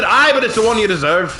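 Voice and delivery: Irish lilt. Pretend. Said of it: "I stepped a little too Irish there".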